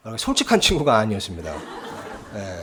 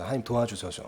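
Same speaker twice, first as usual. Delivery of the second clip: inner prayer; 4 semitones lower, 10 dB quieter than usual. Retold or imitated. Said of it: "속으로요".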